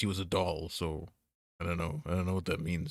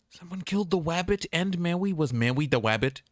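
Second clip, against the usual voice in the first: mock dismay; 10 semitones higher, 4 dB louder than usual. Mock Fudd lament.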